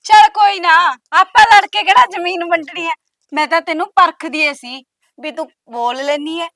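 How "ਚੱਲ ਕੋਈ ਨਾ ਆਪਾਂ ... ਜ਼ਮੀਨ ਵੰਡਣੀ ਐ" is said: sudden bright backing down. Acted. Sudden switch to making peace.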